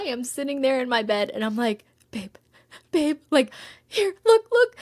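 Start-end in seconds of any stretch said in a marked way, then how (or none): 2.1-4.8 high, loud urgent calls to her partner; excited calling. Retold or imitated. To her partner in bed, showing the agent's email: excited loud calling. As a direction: get him to look right now, thrilled.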